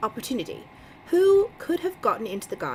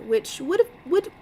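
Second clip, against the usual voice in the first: stumbling over "would", repeating it; tripping on "which would have, would"; stuttering; 6 semitones higher than usual. Real, not acted. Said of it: "like, stuttering".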